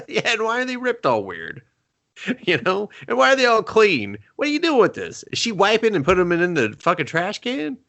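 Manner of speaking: high, laughing incredulous questions; laughing disbelief. Real, not acted. Friend laughing at the house's weird trash. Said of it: "laughing disbelief about Kleenexes".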